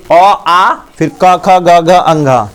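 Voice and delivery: ख ग घ अंघ said slowly and clearly; slow recitation. Shown as a demonstration. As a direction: spell out each letter slowly. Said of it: "धीरे धीरे बोल के देखना". (धीरे धीरे ख ग घ अंघ)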